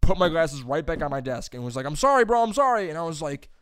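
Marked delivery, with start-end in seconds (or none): 1.8-2.9 high, loud retold apologizing; acted-out classmate backing down; flustered apology. Classmate returning the glasses, flustered apology.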